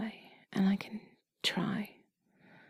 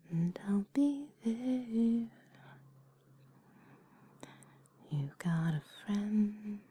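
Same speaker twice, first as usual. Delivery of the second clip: slow whispered lyrics; much slower than usual. Acted. Whispers song lyrics slowly.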